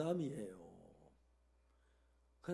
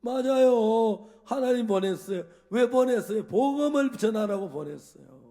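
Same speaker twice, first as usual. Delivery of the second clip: loud affirmation; 5 semitones higher, 12 dB louder than usual. Retold or imitated. Pastor confirming to the wife, loud and emphatic. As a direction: affirm it triumphantly.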